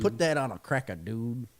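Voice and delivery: lightly imitated Cajun cook; mock Cajun accent. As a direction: quote the catchphrase with a Cajun lilt. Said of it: "has a thick Cajun accent".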